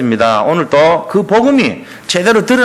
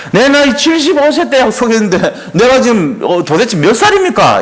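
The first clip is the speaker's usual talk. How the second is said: high-pitched mock exasperation; indignant complaint; 6 semitones higher than usual. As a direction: act out an impatient protest, pitched up. Acting Abraham's complaint to God. (높은 톤으로 억울한 듯 따지며)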